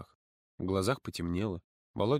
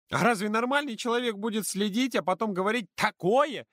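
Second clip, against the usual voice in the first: put-on higher earnest girl's voice; earnest and worried, much higher; serious girl; 11 semitones higher, 3 dB louder than usual. A narrator's reading. Polina girl voice. (Полина серьёзно объясняет подруге)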